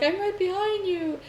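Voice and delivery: put-on high child's voice; whisper-creepy kid on the prank speaker; creepy little kid voice. Prank speaker telling the husband, high creepy kid voice. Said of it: "this little kid voice".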